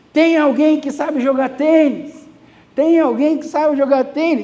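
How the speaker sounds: acted-out, mild army soldier's calling-out voice. Retelling an army soldier calling out in the town, imitating a soldier shouting. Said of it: "um soldado do exército começou a gritar".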